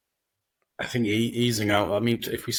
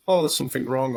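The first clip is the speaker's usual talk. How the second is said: higher, anxious voicing of a nagging thought; worried inner voice; 5 semitones higher, 3 dB louder, faster than usual. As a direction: voice the worry a bit higher and louder. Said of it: "normally worried voice".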